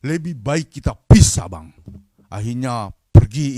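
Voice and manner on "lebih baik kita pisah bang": high-pitched, indignant wife, imitated; angry wife. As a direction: act out a wife's scolding, bursting louder near the end. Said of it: "istrinya langsung marah". (menirukan istri marah, nada tinggi)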